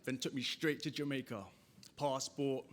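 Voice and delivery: lightly performed spoken-word storytelling; poetry recital. Acted. Poet recalling dad's reply to the crowd, restrained recital. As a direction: ease back from declaiming into measured verse. Poem eases into story of dad.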